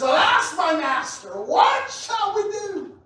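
high, slow, fearful cry of alarm; frightened servant. Acted. Servant running in to his master, frightened cry.

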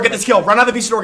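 urgent urging. Real, not acted. Urging teammate.

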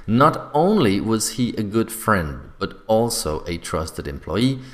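slow, with emphasis on "Not only" and "also"; emphatic intonation. Shown as a demonstration. Teacher reading an example of inversion, with emphatic intonation. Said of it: "don't forget also to use intonation".

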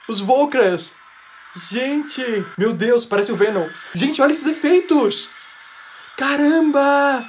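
loud, high, drawn-out exclamations; thrilled amazement. Real, not acted. Fan amazed by the trailer's effects, thrilled. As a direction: gasp and cry out, blown away. Live reaction to trailer visuals.

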